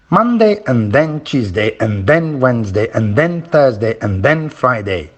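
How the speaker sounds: Monday, Tuesday, Wednesday, Thursday, Friday on steady beats with "and then" tucked between; rhythm drill. Shown as a demonstration. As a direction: keep a regular beat through each "and then", falling on Friday. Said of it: "activity you can use to practice stress".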